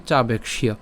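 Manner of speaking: চাবেক্ষ্য as "chabek-shio"; careful model of চাবেক্ষ্য, ending "-kshio"; joined pronunciation. Shown as a demonstration. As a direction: say চাবেক্ষ্য with k into sh plus io. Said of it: "আর একসাথে যদি উচ্চারণ করি".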